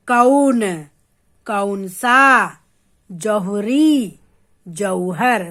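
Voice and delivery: "कौन, कौन सा, जौहरी, जौहर" slow, the au opened into "a-oo"; long, spread au. Shown as a demonstration. Teacher showing children the au matra in "कौन, कौन सा, जौहरी, जौहर", long spread vowel. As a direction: open wide and draw out the au in "कौन, कौन सा, जौहरी, जौहर". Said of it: "मुंह को खोल के लंबा फैला के बोलेंगे".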